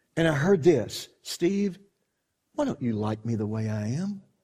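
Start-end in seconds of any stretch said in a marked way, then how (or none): 1.3-4.2 mock sad, soft, sorrowful voice. Retelling hearing the Lord's voice in his heart: imitating the Lord sounding sad. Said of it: "he sounded sad".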